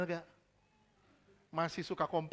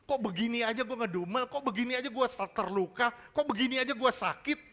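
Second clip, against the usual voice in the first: slightly raised, repetitive questioning of oneself; mock self-reproach; 4 semitones higher than usual. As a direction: act out puzzled self-complaint. Voices self-questioning over petty hurts.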